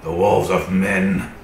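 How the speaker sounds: slow, heavy wolf speech. Acted. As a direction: speak it like a wary wolf. DM voicing wolf reply.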